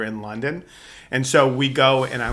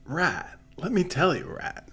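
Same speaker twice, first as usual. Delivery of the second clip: Damone's advice; 11 dB quieter than usual. Retold or imitated. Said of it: "He's like".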